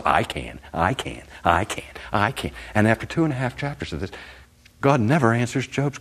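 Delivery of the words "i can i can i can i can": quiet assurance. Acted. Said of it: "God's response".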